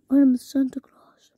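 secretive whispered reveal; hushed pretend reveal. Playful pretend identity, whispered.

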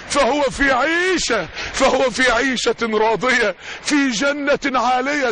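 very slow chanted verse; slow tajweed-style chant; Quran recitation. Acted.

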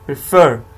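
"प्रिफर" with फर punched loud; light प्रि, loud stressed फर in "प्रिफर"; stress on second syllable. Shown as a demonstration. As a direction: hit the फर in "प्रिफर" hard. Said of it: "फर पर stress पड़ रहा है".

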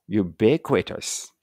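slow "ubiquitous" with the accent on BI; stress on BI. Shown as a demonstration. Teacher repeating the word for learners, slow stressed-BI pronunciation. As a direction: draw out "ubiquitous", landing on the second syllable. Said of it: "ここがアクセントです".

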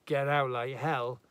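defiant. Acted. Husband shouting back.

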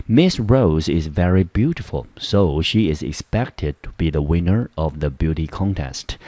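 slow, careful English model reading; measured classroom example reading; example sentence read-aloud. Shown as a demonstration. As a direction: read it out slowly for learners.

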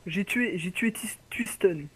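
soft unvoiced murmur; whispering. Real, not acted. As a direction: whisper it to yourself. Murmurs kill name.

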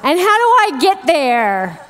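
mock panic, slow and pleading; imitating her lost, frantic self; panicked phone call. Lost wife begging her husband for directions, mock panicked. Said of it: "I'm calling my husband going".

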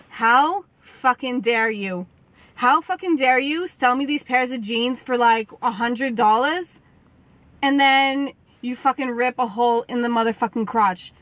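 a lightly voiced diva telling off the store; Margarita voice. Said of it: "I'm gonna bring out my Margarita voice".

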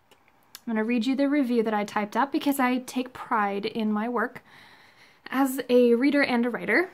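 muffled behind a scarf; talking with a scarf over the mouth; through a scarf. Real, not acted. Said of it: "I have my scarf on still".

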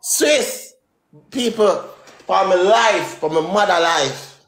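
fake-wail for sympathy, playing it up; mock crying plea. Joking plea to the listeners for his life, with mock sobbing.

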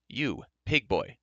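slow, deliberate repeat of the call; repeated address. Acted. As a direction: spell it out slowly to an inferior. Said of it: "he repeated".

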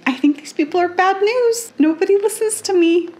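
mock Fanny complaining that nobody listens; whiny Fanny. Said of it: "Fanny's like".

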